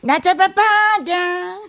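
slow, high coy "catch me"; sing-song lover teasing. Acted. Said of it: "노래". (연인을 놀리듯 느리고 높게)

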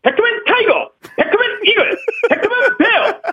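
hero transformation shout. Retold or imitated. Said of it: "벡터맨이 변신할 때 내는 소리".

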